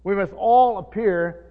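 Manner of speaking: slow reading with "all" drawn out; deliberate, measured verse, leaning on "all"; stress on all. Real, not acted. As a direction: stretch "all" and give it weight. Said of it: "I wanna emphasize the word".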